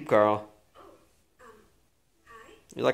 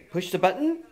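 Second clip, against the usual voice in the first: put-on high coaxing voice for a baby; high baby talk; 12 semitones higher than usual. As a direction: coax the baby, pitched up. Coaxing baby to push button.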